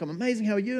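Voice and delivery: high, upbeat answer; cheerful reply. Retold or imitated. Barista answering a lovely customer, high and chirpy. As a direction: answer them all chirpy. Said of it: "And I'm like".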